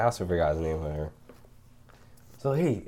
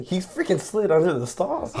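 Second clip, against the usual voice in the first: slow; 8 semitones higher, slower than usual. Real, not acted. Incredulous retelling.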